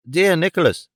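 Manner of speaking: plain reading voice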